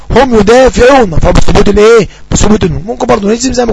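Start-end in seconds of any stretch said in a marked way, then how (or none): 0.1-1.2 slow, clear dictation of the example. Shown as a demonstration. Teacher giving students an example sentence, slowly. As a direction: dictate it word by word. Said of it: "وهو الجماعة للغائب".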